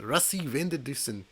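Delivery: Rassie van der Dussen in a South African accent. Shown as a demonstration. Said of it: "You gotta say it with a South African accent".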